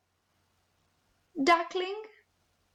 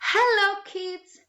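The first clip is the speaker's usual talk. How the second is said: animal character; 3 semitones higher, slower than usual. Acted. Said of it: "I am an animal".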